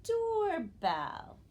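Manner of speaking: "doorbell" loud, with a long high door falling to bell; teacher announcing "doorbell" part by part, high and loud; syllable blending demo. Shown as a demonstration. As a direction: project "doorbell" as two stretched syllables. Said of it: "the new word is".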